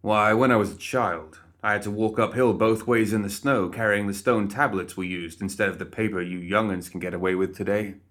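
a hint of a cranky old man lecturing youngsters; mock-grumpy old-timer yarn. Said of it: "smirked and winked".

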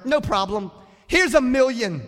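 high and loud, tossing off a fortune; booming generous donor; lavish donor. Acted. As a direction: hand over a million like it's nothing.

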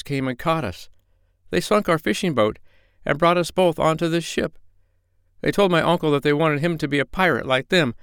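put-on high young boy's voice, worried; a small boy pours out his sad tale; frightened little boy. A narrator's reading. Boy tells the doctor how pirates took his uncle, worried.

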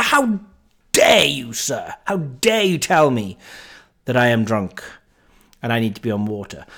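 outraged, pompous how-dare-you; indignant. Retold or imitated. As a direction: play the offended gentleman. Indignant retort to the bouncer.

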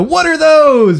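"What are those?" shouted high and loud; meme delivery. Shown as a demonstration. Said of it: "I didn't like the delivery".

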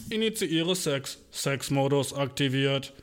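slow mechanical announcement; slow robot system message. Retold or imitated. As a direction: report it like a computer. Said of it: "Zwei Roboter, die bang".

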